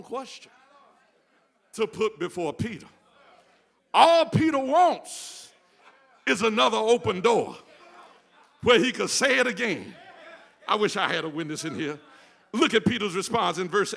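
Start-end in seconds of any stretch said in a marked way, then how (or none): 3.9-10.0 excited pulpit lift. Real, not acted. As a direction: relish Peter's chance, laughing. Preacher lifting to a laughing shout.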